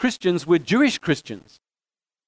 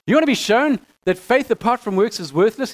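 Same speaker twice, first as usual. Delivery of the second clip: laughing through it; 3 semitones higher than usual. Real, not acted. Teacher laughing as he reads James's rebuke. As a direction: quote read with a real laugh in it. Rereads scripture quote, laughing.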